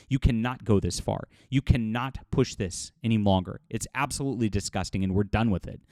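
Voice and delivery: firm, fed-up denunciation; real anger. Real, not acted. Commentator calling out game developers to viewers, angry and resolute. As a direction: lay down the law with controlled outrage. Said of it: "especially when I'm mad".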